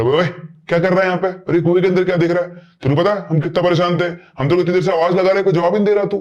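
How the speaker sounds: friendly scolding with a rush of worry; worried scolding. Retold or imitated. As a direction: scold him, half relieved, half annoyed. Advik scolds Ved, worried.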